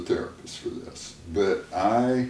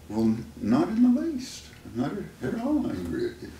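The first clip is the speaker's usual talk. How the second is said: forced denial; 5 semitones higher than usual. Retold or imitated. Husband hiding his anger from his wife, forced breezy denial. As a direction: fake breezy cover for anger. Angry husband denies being mad.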